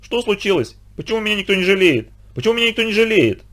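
высоко и жалобно, хнычет; скулит, как обиженный ребёнок; жалобный скулёж. A narrator's reading. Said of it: "жалобно скулил". (брошенный бандит жалобно скулит, высоким голосом)

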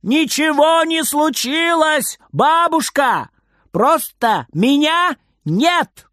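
high, slow shout from inside a wardrobe; loud muffled shout. Acted. Boy shouts to grandma from inside the wardrobe. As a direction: shout it out from the closet. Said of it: "громко и глухо кричит из шкафа".

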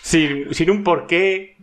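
incredulous emphasis. Real, not acted. Amazed, laughing at friend's nerve.

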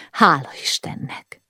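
whispery sigh of relief. A narrator's reading. Wife finding her husband unhurt, sighing. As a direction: sigh it out almost without voice. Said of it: "sóhajtotta".

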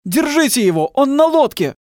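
high, loud urgent yell; frantic shout. A narrator's reading. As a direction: yell for them to grab him. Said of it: "продолжал кричать мужчина".

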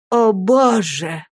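slow, drawn-out prayer cry; dying mother praying for her child; prayerful sigh. A narrator's reading. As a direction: plead to God slowly. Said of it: "сказала она, складывая свои худенькие ручки".

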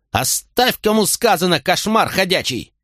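very high, scolding shriek; shrill scolding mother. A narrator's reading. Mother yelling at her brawling son, shrill scolding. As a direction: scold him like a fierce old mother.

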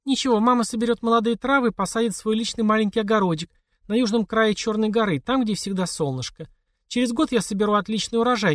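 a mother brushing off worry with a plan; mother's voice. A narrator's reading.

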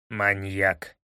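low, contemptuous through the teeth; hissed insult. A narrator's reading. Smolenin hissing at Watson over the fly. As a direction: spit the word through clenched teeth. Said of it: "процедил Смоленин".

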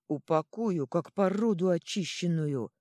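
loud, slow growl. A narrator's reading. Ёж snarling at the troll, loud and slow. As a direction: bark it out slowly and loud. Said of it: "рычал Ёж".

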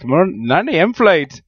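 badly faked Irish accent, drawn out with amusement; really bad Irish accent. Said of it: "Really bad Irish accent".

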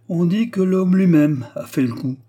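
loud, high, pointed accusation; slow articulation. A narrator's reading. Steward confronting the pale young vicar with the rumour, articulating slowly. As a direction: articulate every word with deliberate weight. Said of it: "articula lentement Delvig".

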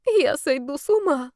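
high, whiny plea, a touch of despair; mildly wailing that he'll go mad; plaintive. A narrator's reading. Yar pleads to the girl, plaintive and high. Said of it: "жалобно сказал Яр".

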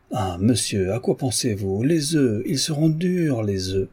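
mock scold about the eggs; scolding cook.

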